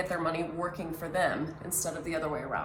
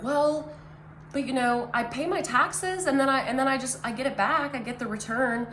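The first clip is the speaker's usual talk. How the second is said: a hint of a typical taxpayer, pitched higher; lightly mock the average person, voice raised in pitch; quoting what people always say, pitched up; imitating people; 5 semitones higher than usual. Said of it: "I hear people say all the time".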